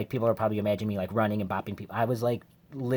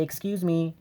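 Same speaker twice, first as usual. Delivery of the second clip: higher, politely asking excuse me; a sweet, polite "Excuse me," pitched up; asking strangers to step aside, pitched-up polite; 6 semitones higher, 3 dB quieter than usual. Retold or imitated. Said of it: "I would politely say".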